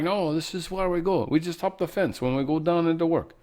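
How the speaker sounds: mock Russian, hammed up and off-key; a cheesy fake Russian accent; bad Russian accent. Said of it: "Such a bad Russian accent".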